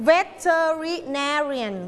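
"Veterinarian" syllable by syllable, NAR strongest; slow teacher's "Veterinarian", stressing NAR; stress on fourth syllable. Shown as a demonstration. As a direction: break up "Veterinarian" and lean on NAR. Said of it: "พยางค์ไหนคะ".

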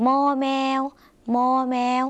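มอแมว said high and clearly; name the letter มอแมว for the class; letter name read out. Shown as a demonstration. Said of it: "บวกด้วย".

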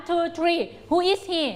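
slow, drawn-out drill question; slow choral question. Shown as a demonstration. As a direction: ask it slowly for the class to answer. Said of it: "เด็กๆ ตอบพร้อมกันนะ".

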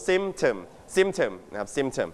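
"Symptom" with the first syllable stressed. Shown as a demonstration. Teacher shows the class where to stress "Symptom", first syllable stressed. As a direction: lean on the opening "Sym" of "Symptom", letting the rest fall. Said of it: "You stress on the first syllable".

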